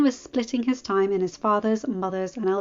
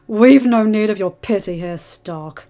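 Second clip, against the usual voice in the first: spat like a curse; 9 dB louder, slower than usual. A narrator's reading. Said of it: "as if it were a curse".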